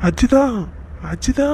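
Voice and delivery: calling out. Acted. Calling wife as she leaves.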